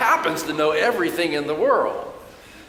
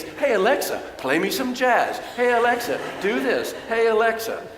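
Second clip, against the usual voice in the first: sweet talking Alexa; 6 semitones higher than usual. Retold or imitated. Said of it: "saying wonderful, sweet little things".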